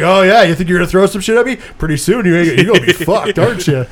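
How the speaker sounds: mock Bruce Willis swagger, lightly voiced; trash-talking tough guy. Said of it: "He is talking shit to the fucking asteroid".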